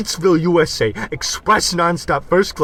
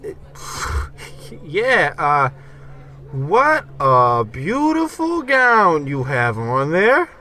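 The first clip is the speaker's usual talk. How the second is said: charm offensive; slower than usual. Acted. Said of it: "We just gotta turn on the charm".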